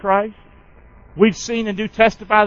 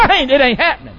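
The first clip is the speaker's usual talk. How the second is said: laughing dismissal; 7 semitones higher, 4 dB louder than usual. Real, not acted. Pastor laughs off a false hope.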